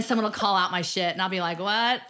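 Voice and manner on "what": loud, high, incredulous "what"; mock startled. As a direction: caught out, blurt it high and loud. Mock startled reaction to callout.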